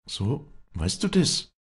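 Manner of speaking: high, slow, bitter comeback; bitter retort. A narrator's reading. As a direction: throw it back at him bitterly. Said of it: "fuhr Walli bitter auf".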